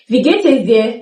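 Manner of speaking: Wie geht es dir with es said; careful Wie geht es dir; full form. Shown as a demonstration. Teacher gives the full greeting.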